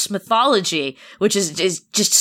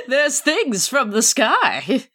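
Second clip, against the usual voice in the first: slow, higher, laughing melodrama; mocking echo; 5 semitones higher, slower than usual. Co-host teasing the Donald Blake quote, mock melodrama. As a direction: draw it out in mock alarm through laughter.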